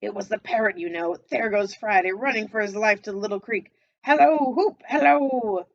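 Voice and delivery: excited calling out. A narrator's reading. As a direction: hail a far figure gleefully. Scrooge calling to Friday.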